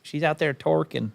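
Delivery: "twerking" said as "TORK-in"; grandma's mispronunciation. Retold or imitated. Man quoting his grandma's made-up word, twerking said as "torkin". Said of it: "That's what my grandma says".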